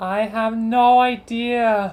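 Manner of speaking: very loud, drawn-out shout, calling out from afar. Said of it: "make it sound like we're trying to yell".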